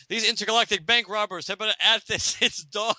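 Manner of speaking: a hint of a tired banker; lightly voiced banker. Voicing a banker during the bank robbery. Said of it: "It's like".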